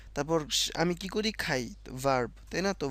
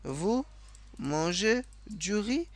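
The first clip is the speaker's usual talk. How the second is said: slow demo; 4 semitones higher, much slower than usual. Shown as a demonstration. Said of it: "টোনটা দিতে হয়".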